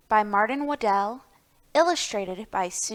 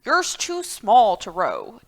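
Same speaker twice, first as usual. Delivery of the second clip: objecting turkey. Acted. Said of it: "Turkey objected".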